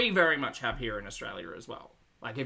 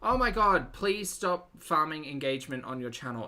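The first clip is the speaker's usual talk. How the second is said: exasperated; 4 semitones higher, 5 dB louder than usual. Real, not acted. Exasperated complaint at co-host.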